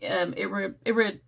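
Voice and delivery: tongue-tied, tripping on requires; stumbling over a word. Real, not acted. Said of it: "I can't say that word today".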